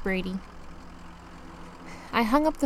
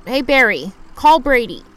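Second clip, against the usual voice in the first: louder, clear voice command; command to phone; 6 dB louder than usual. Acted. Driver commanding the phone assistant, loud and clear. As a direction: speak up so the phone hears.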